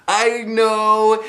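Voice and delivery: a classmate piling on; girl agreeing. Acted. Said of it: "said Polly Allen Puffer".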